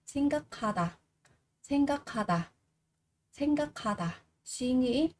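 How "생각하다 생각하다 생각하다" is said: 생각하다 with k and h merged into kh; aspirated k. Shown as a demonstration. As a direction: say 생각하다 as saeng-ga-kha-da. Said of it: "Chúng ta sẽ đọc là khờ".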